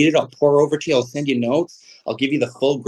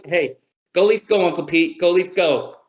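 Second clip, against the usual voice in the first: team cheer; 6 semitones higher than usual. Real, not acted. Cheering to Uncle Pete.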